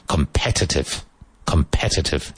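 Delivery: Competitive with the stress on PET; stress on second syllable. Shown as a demonstration. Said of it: "Emphasis on the second syllable".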